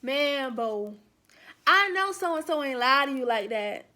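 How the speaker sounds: lightly imitated Southern country boy; a hint of Southern country-boy drawl; Southern boy talk. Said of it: "this is how the Southern boys talk".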